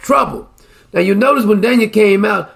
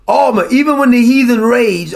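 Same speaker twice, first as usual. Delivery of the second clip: preaching shout; 3 semitones higher than usual. Real, not acted. Preacher rising in fervour.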